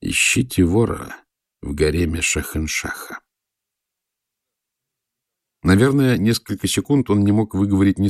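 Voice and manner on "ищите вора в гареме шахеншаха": slow and weighty, dropping at the end; meaningful voice. A narrator's reading. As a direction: lay each word down with weight. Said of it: "проговорил значительным голосом".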